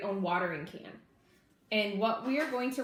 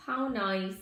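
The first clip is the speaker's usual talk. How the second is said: sighing. Acted. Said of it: "sighed a tired Missus Ladybug".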